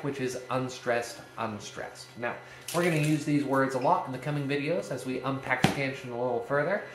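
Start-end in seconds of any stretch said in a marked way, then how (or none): 0.5-2.1 "unstressed, unstressed" as two weak beats, second softer; teacher's demo of unstressed, unstressed, trailing softer; pyrrhic stress. Shown as a demonstration. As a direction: let both words unstressed, unstressed fall away lightly. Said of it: "we've got pyrrhic".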